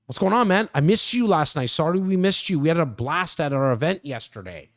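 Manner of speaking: upbeat mock phone greeting to a buddy; friendly sales call. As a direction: greet a missed guest like a pal. Acted friendly call to no-show.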